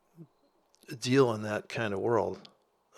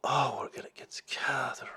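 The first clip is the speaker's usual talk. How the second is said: mock giggly girls; 3 dB quieter than usual. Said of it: "this whole".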